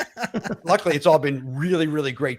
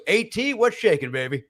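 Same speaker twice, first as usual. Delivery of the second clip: high, hip mock greeting; hammed-up hipster hello; cool-guy greeting; 5 semitones higher than usual. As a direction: play it like a too-cool buddy. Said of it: "And Mike goes".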